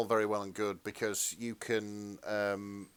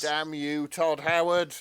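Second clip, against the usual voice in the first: mock curse; 6 semitones higher, 8 dB louder, slower than usual. Mock curse at game creator.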